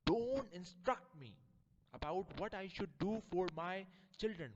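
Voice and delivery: high, loud rebuke; indignant scolding. Acted. Offended lady scolding the mango seller. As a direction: put him in his place sharply.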